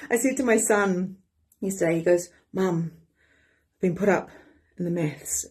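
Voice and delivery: ordinary delivery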